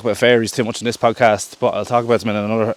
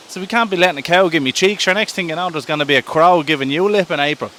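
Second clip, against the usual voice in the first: higher-pitched, lightly acted appeal; worked-up but playful persuading; mild indignant pleading; 4 semitones higher than usual. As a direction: argue your case to a reluctant pal. March argues urgently with April.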